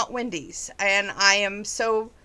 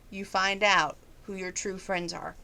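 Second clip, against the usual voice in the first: softer, choked-up emotion; holding back tears; 4 dB quieter than usual. Real, not acted. Grateful vlogger to viewers, softly choked up. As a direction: let the feeling catch in it, softly. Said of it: "I'm trying not to get emotional".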